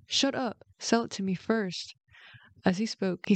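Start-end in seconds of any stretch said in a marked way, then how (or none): 0.1-1.9 angry. Acted. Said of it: "The little fox got angry".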